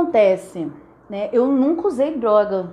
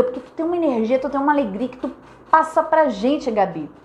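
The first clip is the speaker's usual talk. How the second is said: sincere compliment; 3 semitones higher than usual. Retold or imitated. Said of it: "Não é assim".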